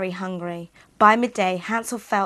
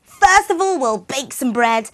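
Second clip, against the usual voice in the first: high, loud scheming witch voice; sly witch; 5 semitones higher, 9 dB louder than usual. Acted. The old witch tricks Gretel, loud high and sly. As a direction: sound sly and sweetly scheming. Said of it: "with a sly look".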